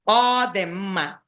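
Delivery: "All" said as a held dotted O; teacher modelling the dotted O in "All"; dotted O sound. Shown as a demonstration. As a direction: hold the opening vowel of "All" as an open O. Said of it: "or the O with a dot".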